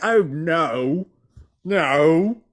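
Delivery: high mock Aussie that slips into British; a put-on Aussie voice gone wrong; botched Australian accent drifting British; failed Australian accent. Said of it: "that's not really Australian".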